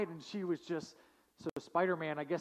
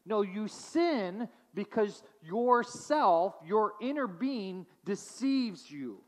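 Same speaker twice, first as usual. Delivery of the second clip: raised, earnest exhortation; James exhorting; 4 semitones higher, 4 dB louder than usual. Retold or imitated. James urging suffering believers, earnest and raised. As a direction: plead with them, pressing each word. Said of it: "he's saying".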